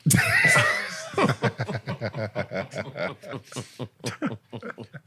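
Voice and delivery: drawn-out burst of helpless laughter; long laugh. Real, not acted. Host laughs at the question about an R&B group, long hearty laugh.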